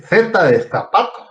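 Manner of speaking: Z and zapato with a Castilian th sound. Shown as a demonstration. Teacher showing students how Z must be pronounced, Castilian Z. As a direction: lisp the Z in "Z de zapato" as in Spain. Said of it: "tengo que pronunciar la Z de zapato".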